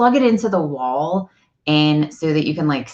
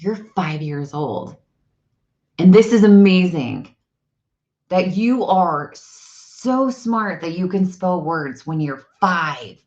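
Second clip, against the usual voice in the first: emphatic, slowing praise; animated kid-talk; 2 semitones higher than usual. Retold or imitated. Mother praising her son's spelling, animated kid-talk. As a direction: build to a big AMAZING, then stretch the praise out. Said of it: "this is how I talk to my kid".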